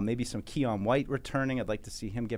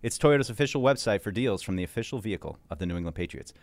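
sponsor ad read; 2 semitones lower than usual. Acted. Host reads sponsor ad.

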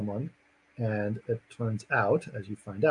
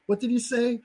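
high-pitched mock bewilderment; incredulous retold question; 11 semitones higher than usual. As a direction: act out a baffled man asking. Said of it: "And he's like".

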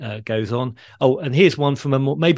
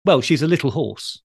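lightly voiced panto dame, higher pitch; lilting higher delivery of a corny stage joke; pantomime dame; 4 semitones higher than usual. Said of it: "the dame said".

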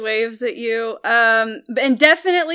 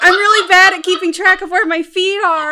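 higher, louder flustered apology; apologetic Minotaur woman; 8 semitones higher, 7 dB louder than usual. Acted. Gamemaster voices the Minotaur woman apologising to the elf. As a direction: gush sorry like a clumsy giant. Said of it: "big Minotaur woman ... is just like".

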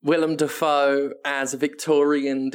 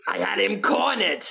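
mock dismay; 7 semitones higher than usual. Willem Dafoe losing Jack the Ripper, mock wailing. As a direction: wail it like a thwarted detective. Detective loses Ripper to time.

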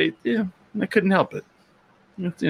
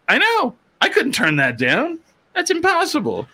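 mock helplessness. Retold giving in to discount.

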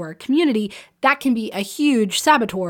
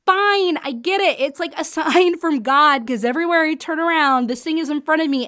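higher, excited mock surrender; mock excited giving in; 4 semitones higher than usual. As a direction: play it like giving in to a sign, thrilled. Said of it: "you're more and more excited ... you're like".

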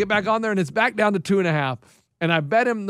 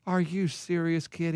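Keith; 7 dB quieter, slower than usual. Retold or imitated. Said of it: "And he goes".

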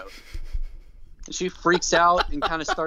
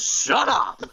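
mock snap; 9 semitones higher than usual. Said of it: "And Vince just goes".

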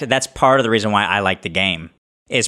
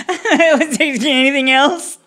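high, slow, sing-song waitress voice; imitating waitress; 14 semitones higher, 4 dB louder, slower than usual. Wife retelling the server at Bobby's, high sing-song. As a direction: mimic the server's polite question, drawn out. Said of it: "she goes".

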